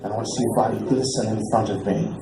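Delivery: low, soft seductive purr; sultry caller. Retold or imitated. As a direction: breathe it like a creepy come-on. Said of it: "And he goes".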